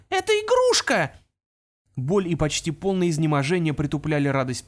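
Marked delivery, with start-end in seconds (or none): 0.1-1.1 high, loud pixie cry of disbelief; dismayed exclamation. Acted. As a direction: spit out the discovery. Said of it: "воскликнула она".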